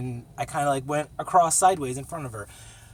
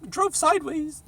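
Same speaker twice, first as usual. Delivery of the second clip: much higher meek little apology voice; mock timid apology. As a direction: squeak out a sheepish sorry. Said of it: "be like".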